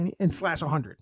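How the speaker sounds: breathy whispered aside. Pretend. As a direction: say it under your breath.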